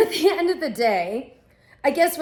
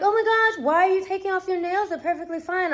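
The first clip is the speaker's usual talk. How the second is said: lightly voiced nail tech, higher and quicker; mock concerned salon worker, pitched up; imitated fussing nail tech; 5 semitones higher, faster than usual. Mimicking nail techs' fussing.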